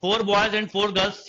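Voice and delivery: very slow, every word drawn apart; teacher repeating the question for note-taking; slow dictation. Shown as a demonstration. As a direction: spell it out slowly so students can write. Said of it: "dictating the question again".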